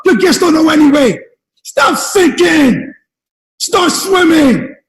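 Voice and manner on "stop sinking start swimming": drawn out and punched, word by word; preacher pounding the slogan at his listeners; slow emphatic slogan. Acted. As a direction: hammer each word home. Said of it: "slogan chant".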